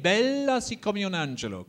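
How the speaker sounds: high-pitched line, lingering on the L in "Bella"; double L in bella. Shown as a demonstration. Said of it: "use that double L in bella".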